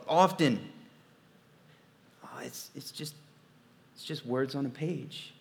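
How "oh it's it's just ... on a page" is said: dismissive. Retold or imitated. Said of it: "We think".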